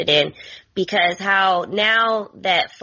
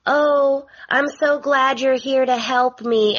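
higher, put-on sweetness; pitched-up mock thankfulness; mock gushing; 5 semitones higher than usual. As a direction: imitate someone gushing with gratitude. Mimics Steffi's pointed sweet comment.

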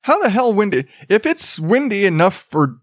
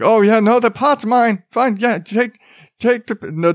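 lightly voiced suspect, higher pitch; imitated suspect; 5 semitones higher than usual. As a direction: hurriedly concede in a higher mock voice. Imitating the arrested woman's excuse.

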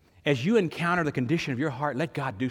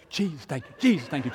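joyful thanks; 8 dB louder than usual. Retold or imitated.

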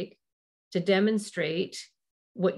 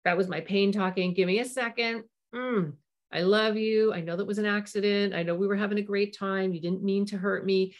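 gentle apology; 2 semitones higher than usual. Shown as a demonstration. Parent apologizing to child after a flash reaction. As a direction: soothe the child after snapping. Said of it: "You can catch yourself and go".

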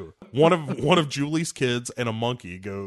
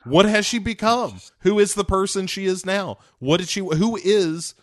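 louder, higher, incredulous questions fired off; exasperated outburst; 6 semitones higher, 5 dB louder than usual. Retold or imitated. Baffled reviewer ranting at the screen, loud and incredulous. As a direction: demand answers in disbelief. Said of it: "And I was like".

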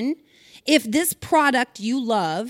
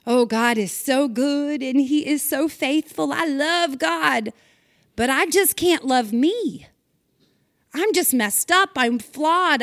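self-loathing believer; 3 semitones higher than usual. Pretend. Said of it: "Could that be our representation of God?".

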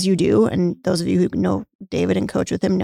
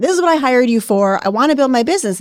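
irritated retort; 5 semitones higher than usual. Retold or imitated. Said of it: "pissed off at you for asking me that".

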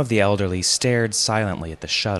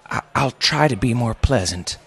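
put-on higher-pitched, pleading old father; trembling plea; 5 semitones higher than usual. A narrator's reading. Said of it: "his voice trembling".

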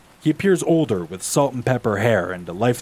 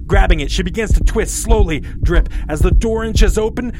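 rising pitch and louder, tension mounting; building tension; 7 semitones higher, 4 dB louder than usual. A narrator's reading. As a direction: build the suspense line by line. Tension builds as she opens closet.

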